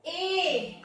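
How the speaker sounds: ए held with the mouth open; wide-mouthed ए. Shown as a demonstration. Teacher showing pupils the mouth shape, wide-mouthed ए. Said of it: "आपका मुंह खुलेगा".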